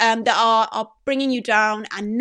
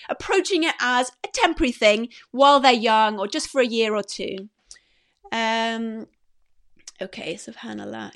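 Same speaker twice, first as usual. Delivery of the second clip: tearful. Real, not acted. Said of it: "I'm sorry about the crying".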